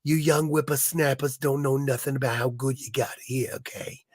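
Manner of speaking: lightly put-on old smoker's voice; chain-smoking old lady. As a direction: play a casino old-timer scolding youngsters, trailing into a whisper. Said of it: "old ladies chain smoking at the casino".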